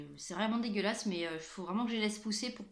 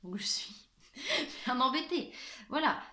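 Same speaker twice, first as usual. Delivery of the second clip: straining at a stuck lid while talking; laughing through the effort of opening; struggling to open lid; 4 semitones higher than usual. Real, not acted. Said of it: "je n'arrive pas à l'ouvrir".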